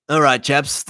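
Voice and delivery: lightly put-on upper-class English accent; a hint of upper-class English for a Spaniard. Playing a Spanish leader to his people, lightly upper-class English. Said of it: "as my upper class English accent for a Spaniard".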